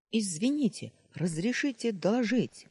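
boy mimicking a soldier's drill report; crisp military report. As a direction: report to the officer smartly and eagerly. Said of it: "чётко отрапортовал".

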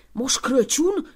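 slow, rising disbelief on Crăciun; astonished exclamation. Acted. The wife stunned that Santa stands in her house, slow rising disbelief. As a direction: stretch Moș Crăciun into a stunned question. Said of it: "exclamă femeia".

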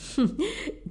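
a short contemptuous laugh; scornful chuckle. A narrator's reading. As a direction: scoff under your breath. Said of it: "Hắn cười khẩy".

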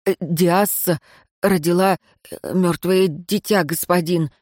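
halting, full of nervous э; faltering servant who can barely get it out; stammering servant. Acted. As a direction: stumble through the report fearfully. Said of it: "сбивающийся и заикающийся".

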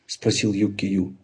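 ordinary delivery

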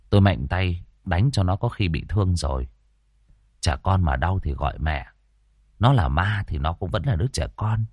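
put-on low, calm young exorcist explaining patiently; a composed young master talking his partner down; young master's sighing voice. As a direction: sigh it out, steady and unhurried.

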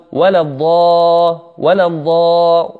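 ولا الضا clipped without doubling; common mistake. Shown as a demonstration. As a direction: show the error again. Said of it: "وهذا من الأخطاء".

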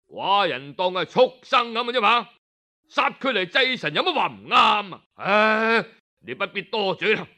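the tyrant flares up and silences his minister; furious king. Acted. King angrily dismisses the minister's advice, rising to a shout. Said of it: "楚靈王一聽就發火".

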